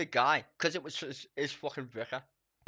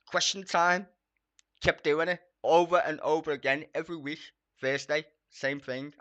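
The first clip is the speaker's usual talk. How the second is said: louder, ranting, fed up; 5 semitones higher, 10 dB louder than usual. Real, not acted. Streamer ranting at copyright strikes, loud and fed up. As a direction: vent it hard and loud.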